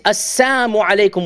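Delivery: "Assalamu" said as "Assamu", the l dropped; the mocking "Assamu alaikum" with no lam; mocking greeting without the lam. Shown as a demonstration. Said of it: "without the lam".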